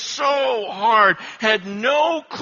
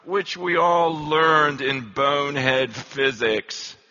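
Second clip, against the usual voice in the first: low, slow English lecturer voice; imitated English professor, pitched low; English accent; 7 semitones lower, slower than usual. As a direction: drop it in slowly with an English accent. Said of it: "he had an English accent".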